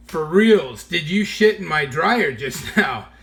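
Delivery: rising heated disbelief; incredulous, half laughing, getting heated. Retold or imitated. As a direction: press him, getting worked up. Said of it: "I start getting heated".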